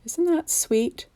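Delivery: slow, high, cooing sweetness; cutesy coo. Real, not acted. Crafter cooing at her cute gnome card, high and slow.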